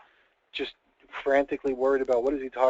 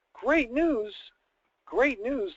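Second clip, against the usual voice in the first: much higher, eager double take; surprised; 9 semitones higher, much slower than usual. Acted. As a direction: pounce on the good news. Wife surprised by husband's call.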